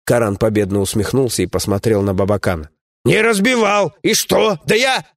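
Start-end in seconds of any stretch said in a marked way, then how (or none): 3.0-5.1 a lightly raised, scolding comrade's voice; gruff dwarf companion. Acted. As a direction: grumble at a foolish friend, voiced a bit higher.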